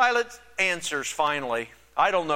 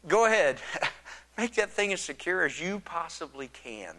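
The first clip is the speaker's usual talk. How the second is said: laughing Pilate. Retold or imitated. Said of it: "he's probably kinda laughing".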